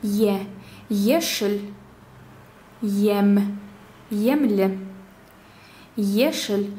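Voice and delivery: front ye in «Ешель», «емле»; careful word-by-word demo of soft «ем», «емле». Shown as a demonstration. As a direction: pronounce «Е» softly fronted, as in «Ешель». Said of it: "мягко также".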